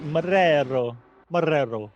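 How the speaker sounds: "Marrero" repeated carefully with a falling end; careful pronunciation. Shown as a demonstration. Co-host defending his attempt, "Marrero" pronounced carefully. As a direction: say "Marrero" deliberately, proving it was right. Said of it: "I thought I said it right".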